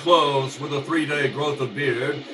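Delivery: lyrical scene-setting narration over music; radio narration. A narrator's reading. Narrator describing the city dump, lyrical and steady. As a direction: paint the moonlit dump for listeners.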